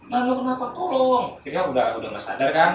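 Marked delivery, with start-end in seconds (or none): 0.1-0.7 alarmed. Retold or imitated. Friends alarmed at screaming classmate. 0.7-1.2 high-pitched mock cry for help; long, high call; screaming for help. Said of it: "Itu pas duduk teriak".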